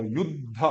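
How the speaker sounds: युद्ध as "yud-dha", vowel on the end; full dha. Shown as a demonstration. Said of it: "फिर ध पूरा बोल दो".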